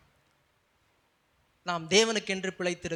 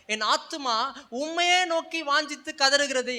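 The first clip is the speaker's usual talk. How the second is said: fervent scripture quoting; 5 semitones higher, 4 dB louder than usual. Real, not acted. Quotes psalm with fervour.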